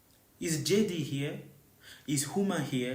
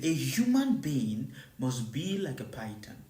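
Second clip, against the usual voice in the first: normal talking voice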